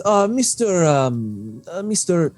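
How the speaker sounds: a prim merchant fishing for a name; lightly voiced fussy shopkeeper.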